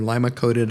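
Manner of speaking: LIMA-COATED with LIMA as LYE-muh; variant pronunciation. Shown as a demonstration. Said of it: "they can be pronounced".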